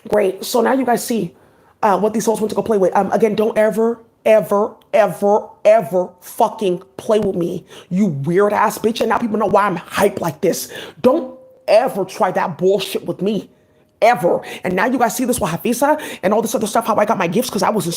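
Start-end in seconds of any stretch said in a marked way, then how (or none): 3.3-9.0 each ever dragged out slowly and hard; slow angry warning. Real, not acted. Warning someone off angrily. 11.0-14.4 each ever dragged out slowly and hard; slow angry warning. Real, not acted.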